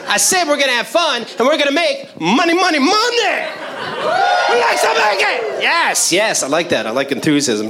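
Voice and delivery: cheesy corporate cheer, barely shifted; lightly voiced peppy trainer. Trainer addressing new hires, a light cheesy pep-rally voice. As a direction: sell the fun like a pep rally. Plays Applebee's trainer throughout.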